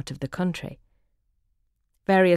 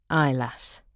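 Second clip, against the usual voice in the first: drowsy lower husband grunt; sleepy husband; 3 semitones lower than usual. Retold or imitated. Dozing husband answering his wife, drowsy and low. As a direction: answer half-asleep, barely bothered.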